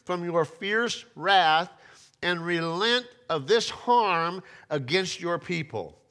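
loud, slow, urgent plea; loud pleading. Retold or imitated. Moses begging God to spare people, loud slow plea. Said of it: "Moses pleads with God".

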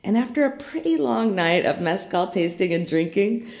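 groggy hungover morning voice; tired, hungover, early morning. Real, not acted. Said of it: "please excuse any of the hungover morning voice".

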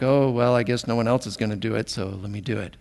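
quick, low, trailing mock resignation; grudging martyr sigh, fading out; lightly mocked put-upon helper; resigned sigh. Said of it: "no sigh of resignation or eye rolling".

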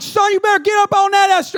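1 yelling at son. Retold or imitated.

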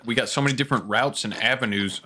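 talking through a mouthful; words round a bite of pickle; mouth full. Real, not acted. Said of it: "talking with my mouth full of pickles".

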